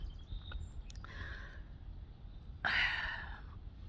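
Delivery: long trembling sigh out; a shaky breath to steady herself. Real, not acted. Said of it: "push through on this one".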